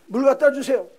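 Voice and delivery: high, loud demand from a bratty son; filho folgado. Acted. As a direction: order your father about loudly. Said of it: "아주 못되게 구는데".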